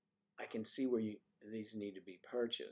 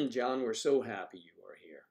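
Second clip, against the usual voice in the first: louder, bright welcome to a viewer; cheery welcome; 7 dB louder than usual. Real, not acted. Greeting John in chat, louder and cheery.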